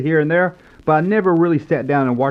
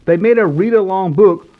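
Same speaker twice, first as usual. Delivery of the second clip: louder and higher, showing off the find; excited reveal; 4 semitones higher, 3 dB louder than usual. Acted. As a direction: unveil it with a grin in your voice. Reveals a surprising read-along.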